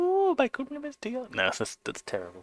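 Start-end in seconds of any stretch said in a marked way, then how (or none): 0.0-1.3 fake feminine voice, pitched way up. Trying out a voice on a laugh, in a put-on feminine voice. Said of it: "sort of more feminine voice".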